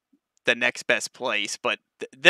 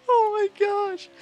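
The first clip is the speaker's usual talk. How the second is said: excited; slower than usual. Real, not acted. Thrilled by motion rig ride.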